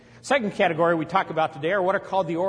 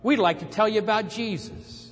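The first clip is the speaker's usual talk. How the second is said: mock missionary greeting; slower than usual. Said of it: "and they'll go".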